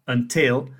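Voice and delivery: "until" with the stress on TIL; unstressed schwa first in "until", then a stressed "til"; stress on second syllable. Shown as a demonstration. Teacher showing learners where stress falls, second-syllable stress in "until". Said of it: "the second syllable is stressed".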